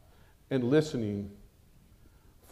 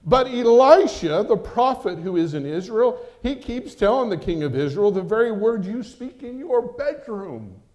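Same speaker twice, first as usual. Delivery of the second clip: urgent report; 9 semitones higher, 8 dB louder than usual. Acted. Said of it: "said one of his officers".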